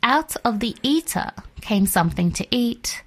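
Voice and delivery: measured, slightly softened verse reading; scripture reading. A narrator's reading. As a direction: recite the riddle with deliberate phrasing. Reads the riddle from scripture.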